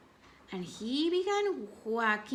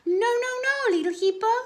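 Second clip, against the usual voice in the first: high, louder motherly no, no, no; Mama Hippo scolding; 12 semitones higher, 7 dB louder, much faster than usual. Acted. Mama Hippo scolds her son after his fall, high and loud. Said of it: "she said".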